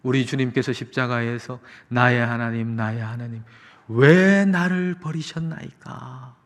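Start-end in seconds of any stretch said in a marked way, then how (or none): 1.9-6.3 imitated cry from the cross, held back then swelling; slow, stretched plea on 'why'; acted, restrained outcry to God. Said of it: "이 외침이 있었기 때문에".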